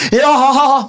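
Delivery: high, raucous mock laughing shout; imitated heckler yell. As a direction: yell back like a drunk gang. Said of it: "Så skriker de, svarer meg". (etterlignet høyt skrål)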